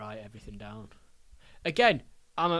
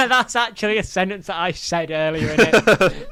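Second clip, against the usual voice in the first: loud, higher, through real laughter; laughing; 5 semitones higher, 9 dB louder than usual. Real, not acted. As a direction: say it while cracking up at the joke. Cracking up at co-host's joke.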